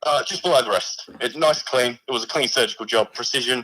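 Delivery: a lightly put-on, weak Australian accent; a mock Aussie bloke voice, barely there; poor Australian accent. A severed hand calls the stream in a poor Australian accent. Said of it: "So you've gone for an Australian".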